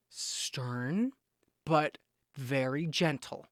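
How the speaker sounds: soft, low, drawn-out and gentle; gentle but stern. Shown as a demonstration. Coaching viewers to approach INFJs calmly, stern but gentle. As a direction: sink low and quiet, taking your time. Describing a calm gentle manner.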